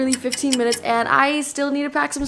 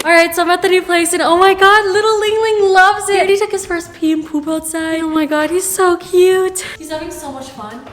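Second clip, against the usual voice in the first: high, loud, delighted gushing; excited gushing; 7 semitones higher, 5 dB louder than usual. Real, not acted. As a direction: gush over your adorable dog. Gushing over dog at new house.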